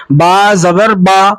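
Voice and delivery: slow با with a wide-open "aa"; drawn-out teacher's recital of با زبر با; open-mouthed vowel. Shown as a demonstration. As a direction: spell it out slowly, mouth open on با. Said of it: "آواز اور منہ کھلے ہوتے ہیں".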